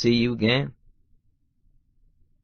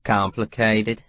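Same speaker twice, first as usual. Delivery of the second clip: said dryly; slower than usual. Acted. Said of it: "I say dryly".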